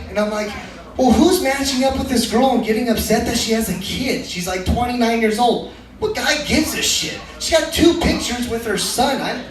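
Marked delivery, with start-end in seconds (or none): 1.0-7.2 high-pitched disbelieving rant; exaggerated, higher-pitched incredulity; mock incredulous. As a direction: ask it as if nobody could possibly object. Mock disbelief at hypothetical complainers.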